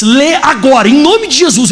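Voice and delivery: ordem de fé. Retold or imitated. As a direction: command healing with rising pitch. Retells his command to heal. (ordem firme em tom de oração)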